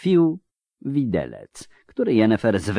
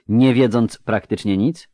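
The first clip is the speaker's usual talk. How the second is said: pointed, mildly reproachful challenge; sharp question; 3 semitones higher, 4 dB louder than usual. Acted. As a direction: press the question with a touch of edge. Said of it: "spytała ostro Nimue". (ostry, wytykający ton)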